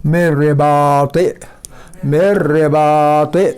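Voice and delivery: slow मेरे बाते with a doubled र; slow recitation. Shown as a demonstration. Teacher recites the second example slowly. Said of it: "इसी तरह मेर पढ़ा जाएगा".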